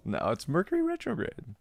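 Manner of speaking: mock-dramatic joke. Real, not acted. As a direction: toss it off as a cosmic excuse. Jokey excuse after laughing.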